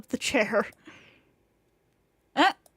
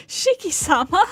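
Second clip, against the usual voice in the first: maid voice; 5 semitones higher, 8 dB louder than usual. Acted.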